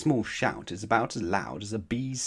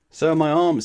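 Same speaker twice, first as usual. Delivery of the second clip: higher and louder, bright cheer; cheerful; 8 semitones higher, 9 dB louder than usual. Acted. Mister Tickle cheerfully boasting about his arms, higher and louder. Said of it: "said Mister Tickle cheerfully".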